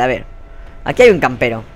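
ordinary talk

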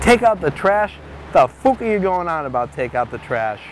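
baffled, irritated comeback; incredulous retort. Acted. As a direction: throw it back in disbelief. Charlie retorts, baffled and cross.

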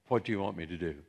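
low, soft, modest offer; understated question. Acted. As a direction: ask it quietly, as a mere pastor. Pastor's limited offer, against Jesus'.

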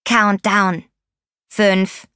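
lightly voiced computer countdown; scratchy computer voice. A narrator's reading. Loudspeaker box starts the countdown, lightly scratchy computer voice. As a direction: count like a machine, evenly. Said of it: "Eine kratzige Computerstimme erschallte".

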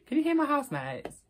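giggling as she asks; laughing. Real, not acted. Asking viewers about noisy housemates, laughing.

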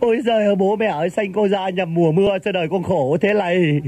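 low, sobbing mock lament; mock crying. Nephew lamenting his birth to his parents, mock crying. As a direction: wail theatrically in self-pity. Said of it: "Mày khóc hả?".

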